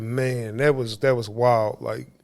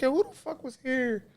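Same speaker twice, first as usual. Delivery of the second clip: exasperated; 5 semitones higher than usual. Retold or imitated. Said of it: "I'm like".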